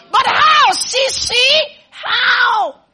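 high-pitched mock incredulous "how"; mimicked doubters' questioning. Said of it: "Be there saying how".

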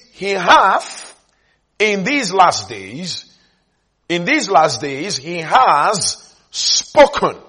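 slow reading, "spoken" drawn out hard; stress on "spoken". Real, not acted. Preacher reading the verse aloud, leaning heavily on "spoken". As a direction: build up to a stretched, weighty "spoken". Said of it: "Underline the word spoken".

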